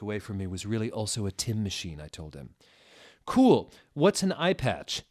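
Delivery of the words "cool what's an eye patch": high, loud squeaky question; whimpering. Acted. Satan asking about the iPod. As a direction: whimper it out eagerly. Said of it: "he whimpered".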